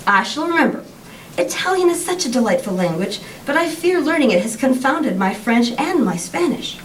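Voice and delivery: expressive, measured book reading with lifted phrases; storyteller's lively, deliberate delivery; story reading aloud. A narrator's reading. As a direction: read the excerpt aloud to an audience, clearly phrased. Reads story excerpt aloud.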